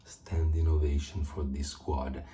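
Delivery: hushed, breathy whisper. Real, not acted. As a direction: whisper it so nobody wakes up. Whispering so the son sleeps.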